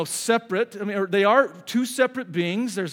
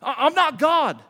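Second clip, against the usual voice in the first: mock rebuke; 7 semitones higher, 4 dB louder than usual. Jesus voiced rebuking in retelling.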